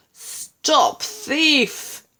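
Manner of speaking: a gardener yelling as he chases; calling out. A narrator's reading. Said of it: "calling out".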